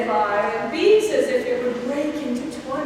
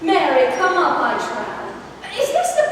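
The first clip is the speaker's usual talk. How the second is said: indignant outburst; 2 semitones higher, 4 dB louder than usual. Acted. Nurse rounds on impatient Juliet.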